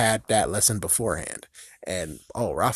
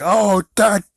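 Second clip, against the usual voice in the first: imitating Michelangelo; 7 semitones higher, 4 dB louder than usual. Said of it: "And he's like".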